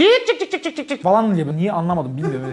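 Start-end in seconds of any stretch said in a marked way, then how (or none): 0.0-1.3 high chirping cik cik; mock birdsong doorbell chirps; bird doorbell chirp. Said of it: "kuş sesi vardı eskiden zil böyle".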